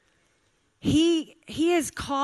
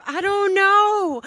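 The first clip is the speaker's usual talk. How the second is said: drawn-out, high, loud mock wail; exasperated anger; 9 semitones higher, 6 dB louder, slower than usual. Daughter cornered by her mother's question, hammed-up exasperated wail. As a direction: act out an exasperated outburst, stretching the words. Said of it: "why are you so angry".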